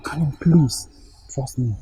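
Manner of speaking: hushed, breathy begging whisper; whispered plea. Acted. Boyfriend whispers to Kanin, begging her trust. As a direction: drop to a whisper, begging close. Pleading softly.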